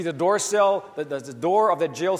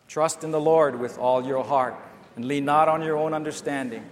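congregational reading aloud; 2 semitones lower, 5 dB louder than usual. Real, not acted. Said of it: "Read that together".

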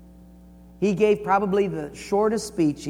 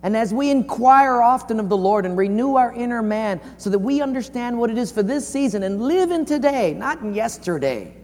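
earnest, raised preaching voice; 6 semitones higher than usual. Real, not acted. Preacher exhorting the church in closing, earnest raised delivery. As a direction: drive the exhortation home in long phrases.

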